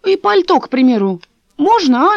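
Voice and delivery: put-on high, quavering old woman lamenting; old neighbour tells Dasha of the bodies, high and mournful; old woman's voice. A narrator's reading.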